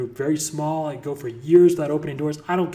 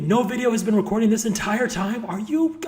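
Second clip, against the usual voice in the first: incredulous outburst; 7 semitones higher than usual. Real, not acted. Finds nothing was recorded.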